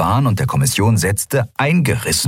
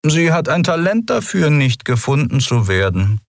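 higher, dry, unbothered; dry remark; 8 semitones higher than usual. A narrator's reading. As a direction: dismiss the threat dryly. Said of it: "sagte er trocken".

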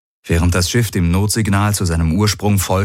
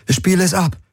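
higher-pitched demand; 12 semitones higher than usual. A narrator's reading. Woman orders the ship to play the signal, demanding. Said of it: "forderte Kirai".

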